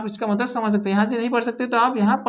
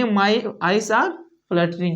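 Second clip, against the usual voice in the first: slow model sentence; much slower than usual. Shown as a demonstration. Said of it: "इसको क्या बोलेंगे आप?".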